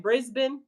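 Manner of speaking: Brisbane as "BRIZ-bin", rising into a question; corrected Brisbane pronunciation. Real, not acted. Asking Miss Kelly if it's right, Brisbane as "Briz-bin". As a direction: check it: Brisbane with a short "bin" ending. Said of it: "Is that right?".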